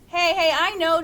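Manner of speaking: excitedly. Acted. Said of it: "said Dad said excitedly".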